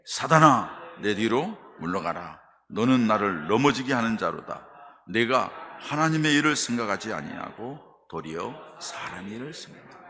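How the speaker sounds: loud stern rebuke; firm rebuke. Acted. Jesus firmly rebuking Peter in a loud voice. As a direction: command it firmly, no room for argument. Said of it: "단호하게 말씀하셔요".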